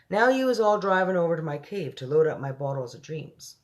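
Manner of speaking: lightly voiced giant giving directions; BFG.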